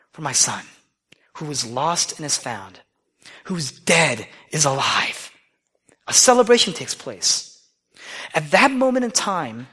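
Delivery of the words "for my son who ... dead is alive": tender father. Acted. Father softens about son.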